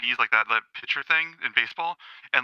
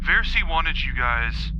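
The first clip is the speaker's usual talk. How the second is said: slow, a little more relaxed; slightly loosened up; 3 semitones higher, slower than usual. Acted. Smith restarting his question to the party, loosening up a little. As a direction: ease off the phrase, keeping it unhurried. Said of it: "loosens up a little bit".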